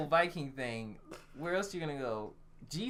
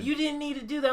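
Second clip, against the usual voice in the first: mocking high squeak; 12 semitones higher than usual. Imitating the chained girl.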